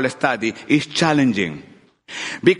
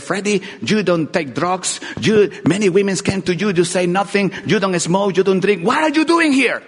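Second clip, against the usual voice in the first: friend at a party questioning him, rising incredulous. Retold or imitated.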